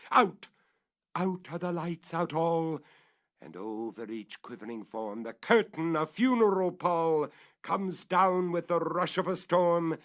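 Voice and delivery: loud, high, sweeping proclamation; thunderous declamation. A narrator's reading. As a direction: boom it like the curtain falling. Poem's loud climax.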